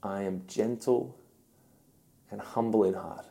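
softly spoken, tender quote; quiet humility with unhurried pauses; gentle, humble voice. Acted. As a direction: say it softly, letting it settle. Repeats Jesus' gentle words tenderly.

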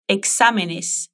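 exámenes spelled out slowly, syllable by syllable; slow model. Shown as a demonstration. Teacher slowly models exámenes for the student to repeat. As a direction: stretch exámenes out for the learner.

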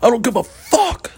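very high, slow squealed curse; mock screeching host. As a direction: squeal it out like a cartoon. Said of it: "never seen him blow up".

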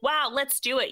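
jumping at the idea; eager husband. Retold or imitated. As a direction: lightly imitate an over-keen partner. Voicing eager husband in anecdote.

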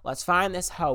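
high, loud mock detective voice; hammed-up sleuth, high and loud; relatives as FBI agents. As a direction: play the nosy aunt proudly cracking the case. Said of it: "They're like".

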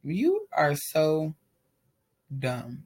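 slow, drawn-out put-down that drops away; a dry, withering slow verdict; flat contempt. Retold or imitated. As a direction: spell out his stupidity slowly. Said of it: "I'm just looking at him like".

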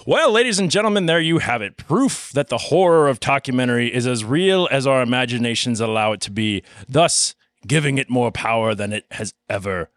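dramatic host intro; announcer voice. Acted. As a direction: present it like a TV host.

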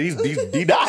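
stammered, high, loud disbelief; retold shock, pitch leaping up; mock panic. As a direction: blurt it out in exaggerated alarm. Retold drunken panic at friend's fall.

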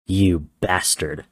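slow menacing growl. Acted. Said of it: "the war god growled".

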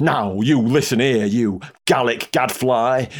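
a touch of mock fury, slow on the insult; furious. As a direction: scold the Frenchman with slow contempt. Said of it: "Webster was utterly furious".

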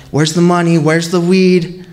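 mock bark of a robber; barking orders. Intruders demand money and weed, mild mock bark. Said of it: "they started barking orders".

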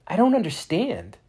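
high, loud cry; exclaimed. A narrator's reading. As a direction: blurt it out, bewildered. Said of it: "Max exclaimed".

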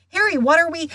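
high, loud, breathless call. A narrator's reading. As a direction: call after him while running. Hermione calling out chasing.

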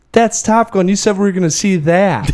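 high-pitched imitation of an indignant kid; accusing child. Dad retelling his son's protest, high indignant imitation. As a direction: imitate a kid calling out a broken promise.

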